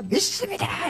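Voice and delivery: high eager crowd cry; crowd shouting back. Retold or imitated. Preacher voicing the crowd's second answer, high cry.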